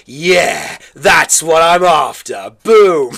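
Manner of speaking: loud, drawn-out mock triumph; hammed-up gung-ho shout; imitated excitement. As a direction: act out the guest's fired-up reaction, building to a punch. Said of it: "your face just turned like".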